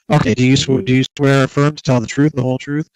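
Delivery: oath repeated loudly. Real, not acted. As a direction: project the oath across the room. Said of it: "Do I need to speak louder for you".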